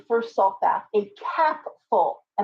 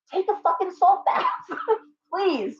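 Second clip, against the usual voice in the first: higher-pitched, laughing through the words; laughing exasperation; 9 semitones higher than usual. Real, not acted. Exasperated rant at monetized witchcraft.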